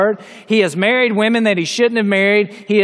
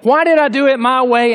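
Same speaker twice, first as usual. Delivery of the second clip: raised, imploring voice, lightly acted; regretful crying out; 3 semitones higher than usual. Preacher imagining a regretful prayer to God, mild crying out. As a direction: mildly cry out in regret. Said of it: "crying out before God saying".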